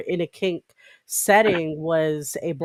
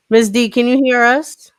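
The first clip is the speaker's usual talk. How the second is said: calling out; 6 semitones higher, 9 dB louder than usual. Real, not acted. Calling out to remote guest.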